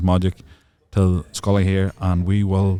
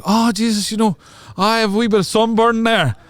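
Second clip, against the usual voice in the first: high, drawn-up mock complaint; imitating Sean; 12 semitones higher than usual. Sunburned friend angling for yogurt from girls, high mock voice. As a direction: put on a high, coy sufferer voice. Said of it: "And Sean was like".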